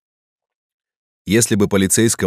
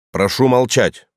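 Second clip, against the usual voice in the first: nasal voice; 4 semitones higher, slower than usual. Acted. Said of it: "гнусливым голосом".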